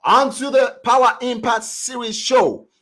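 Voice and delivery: loud, high-pitched host introduction; excited announcer. Acted. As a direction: call it out to the crowd. Host calls out guest introduction.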